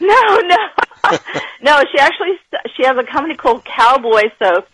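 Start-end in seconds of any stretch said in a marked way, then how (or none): 0.1-1.2 laughing. Real, not acted. Laughs denying Aunt B.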